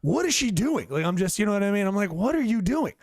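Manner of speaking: ranting at his girlfriend's oven mess, mock outraged; retold angry disbelief. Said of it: "Like, I am just so angry".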